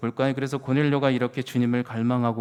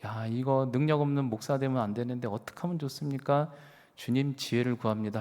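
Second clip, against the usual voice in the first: softer, hushed plea to God; quietly begging the Lord for wisdom; inner prayer; 6 dB quieter than usual. Retold or imitated. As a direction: pray it under your breath, worried. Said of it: "그때 속으로".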